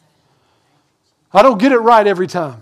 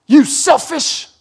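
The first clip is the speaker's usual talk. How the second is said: mock rebuke; 8 semitones higher, slower than usual. What he might have yelled.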